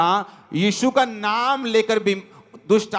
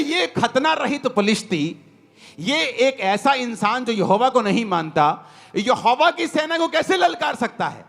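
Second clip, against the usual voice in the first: angry David; 2 semitones higher than usual. Retold or imitated. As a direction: voice David's offended challenge with measured heat. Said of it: "उसे गुस्सा आ रहा था".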